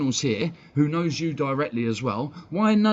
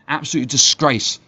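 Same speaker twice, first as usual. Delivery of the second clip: angry outburst; 7 dB louder than usual. Real, not acted. Ranting at his club's fans.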